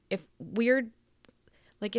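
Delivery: breathy hushed aside about her accent; whispering, half to herself; whispered aside. Real, not acted. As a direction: drop to a secret whisper.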